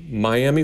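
Miami said my-AM-ee; standard Florida pronunciation. Shown as a demonstration. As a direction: say Miami as my-AM-ee, ending in ee. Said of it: "depending on, you know, how old in Florida".

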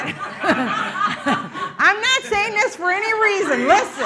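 laughing through the words; can't stop giggling while talking; breaking up with laughter. Real, not acted. Preacher cracks up mid-story.

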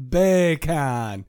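Jamaican accent. Shown as a demonstration. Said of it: "in a Jamaican ac-, accent".

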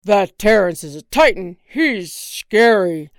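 very loud, panicked husband; terrified shout. Acted. Husband to wife, terrified of giant penguin. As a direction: shout in terror.

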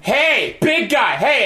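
high, insistent mock calls for attention; imitated drunk. Drunk friend bursting into the garage, high pestering calls. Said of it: "comes in there all drunk and goes".

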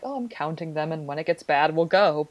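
imitating an unbothered friend, softly at first; chill. Friend quoting a pregnant woman timing contractions, chill. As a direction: play it casual and relaxed. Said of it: "she was so chill".

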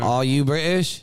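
slow mock British accent. Challenging co-host who doubts him, slow British accent. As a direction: put on British, stretching the words. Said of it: "He hates my British accent".

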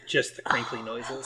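breathy whisper close to the mic; ASMR whisper. Pretend. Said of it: "all of our A S M R fans here are gonna love this bit".

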